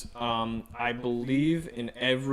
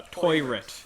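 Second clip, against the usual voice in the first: Japanese accent; 4 semitones higher, 4 dB louder than usual. Shown as a demonstration. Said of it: "if you do it in a, a Japanese accent".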